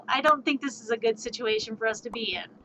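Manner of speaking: hushed unvoiced whisper to the party; whispered warning. Player whispering his doubts about the cave to the party. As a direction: breathe it out like a secret.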